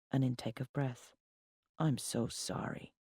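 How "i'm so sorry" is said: soft, slow condolence; sounding sorry. A narrator's reading. Ex hearing her father has died, sounding sorry. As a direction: say it low-key and slowly, with sympathy. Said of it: "He sounded sorry".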